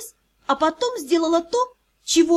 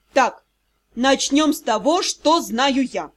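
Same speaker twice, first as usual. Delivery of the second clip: resolute. Acted. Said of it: "решительно проговорил Дроу".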